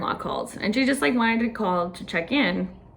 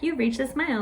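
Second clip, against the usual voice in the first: little lady announcer; 5 semitones higher than usual. Retold or imitated. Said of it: "the little lady comes on".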